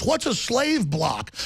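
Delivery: slow, mock innocent question; sneering imitation of a TV host; mocking Colbert. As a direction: play dumb slowly. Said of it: "and Colbert goes".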